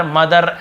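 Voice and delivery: मदर with a full R at the end; final R sounded. Shown as a demonstration. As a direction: pronounce the last R of मदर. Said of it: "ऐसे र को पूरा नहीं बोलते". (मदर का आख़िरी र पूरा)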